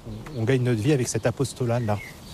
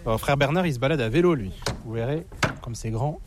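normal talking voice

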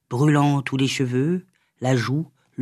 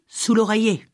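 higher crone voice, stressing oreiller with a falling end; old witch; 6 semitones higher than usual. A narrator's reading. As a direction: hammer home "l'oreiller" like a stubborn witch. Old witch repeats instruction.

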